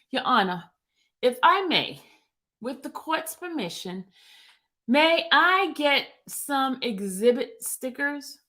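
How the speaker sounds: lightly voiced attorney politely asking the court; Mister Steele. Attorney Steele asking the judge for stickers, lightly voiced counsel. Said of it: "I'm Mister Steele right now".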